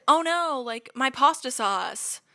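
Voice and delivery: high, slow whiny complaint; mock whining. Teasing roommate about her broken pasta sauce, whining. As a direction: whine it like a brat. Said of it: "I was like".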